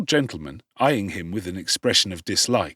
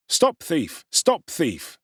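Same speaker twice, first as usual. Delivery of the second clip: echoing shout; 6 semitones higher, much slower than usual. Acted. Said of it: "swell the shout".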